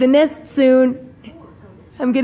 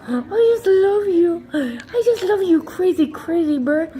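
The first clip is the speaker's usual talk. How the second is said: gushing love; 5 semitones higher than usual. Real, not acted. Owner gushing love to her bird, high coo.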